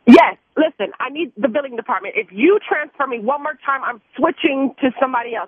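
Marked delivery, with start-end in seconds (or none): 0.1-3.1 fed up. Real, not acted. Fed-up caller demanding billing.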